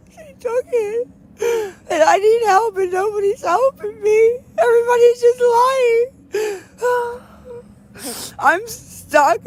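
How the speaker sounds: real crying breakdown. Real, not acted. Streamer crying to chat that nobody helps her. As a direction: plead through real tears, voice cracking. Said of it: "having a fucking mental breakdown".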